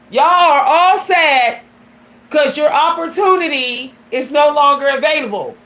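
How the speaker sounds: angry scolding. Retold or imitated. Telling off relatives at funeral.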